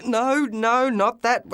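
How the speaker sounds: high desperate scream; high panicked scream at the fish factory. Acted. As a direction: cry out in alarm. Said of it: "I screamed".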